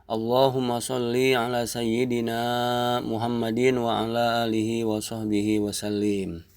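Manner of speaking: even, measured Arabic recitation; prayer recitation. Acted. Teacher opening the lesson with salawat, recited prayerfully. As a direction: recite the blessing on a steady, held tone.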